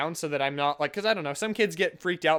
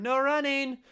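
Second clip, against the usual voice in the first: mild mock yell, higher pitch; retold yell; 8 semitones higher, slower than usual. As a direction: call it after a running kid, half-voiced. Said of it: "I just yell after him".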